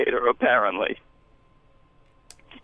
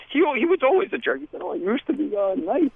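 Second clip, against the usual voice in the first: muffled voice; 4 semitones higher than usual. Acted. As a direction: voice through a wall. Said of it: "Muffled voice".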